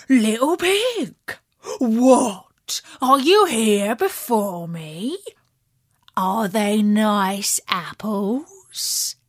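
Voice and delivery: wolf caught off guard; sly wolf. Acted. Wolf surprises the pig.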